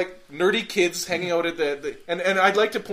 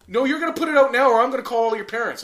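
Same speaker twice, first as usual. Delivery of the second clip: high, fast, louder threat; angry ranger; 7 semitones higher, 6 dB louder, faster than usual. Retold or imitated. Ranger threatening to call parents, fast high angry. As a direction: rattle off the threat angrily. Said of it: "and he's like".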